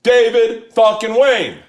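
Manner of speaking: full-voice shout across the party, very high; shouting his name. Retold or imitated. Drunk fan shouting across a party at the wrong man. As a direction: yell the name as loud as you can. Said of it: "As loud as I can".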